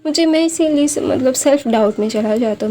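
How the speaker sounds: a touch of crying in a retold quote; tearful retelling. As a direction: voice him like a boy near tears, not full sobbing. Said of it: "जो रोने लगता है".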